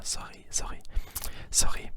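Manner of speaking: "sorry" with a front-loaded German R; German-sounding R in "sorry", not the English one. Shown as a demonstration. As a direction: repeat "sorry" as a German R demo. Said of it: "It's the front R".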